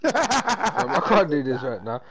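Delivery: slow, laughing through the words; can't stop laughing as he says it. Real, not acted. Laughing repeat of his line.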